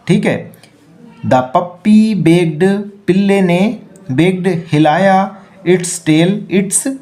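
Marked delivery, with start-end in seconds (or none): 1.3-2.6 very slow, word by word; slow read-aloud. Shown as a demonstration. Teacher rereading the corrected sentence, very slowly.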